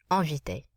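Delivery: "Inviter" said with nasalized first vowel, N not sounded; nasal French vowel. Shown as a demonstration. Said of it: "We nasalize the vowel in front of the N".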